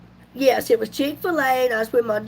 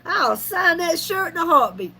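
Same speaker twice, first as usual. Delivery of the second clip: playful boasting; 5 semitones higher than usual. Retold or imitated. Joking boast to teased daughter-in-law.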